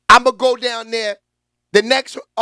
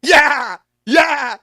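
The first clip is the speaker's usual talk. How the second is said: hype echo; 4 dB louder, much slower than usual. Real, not acted. Echoing hype chant.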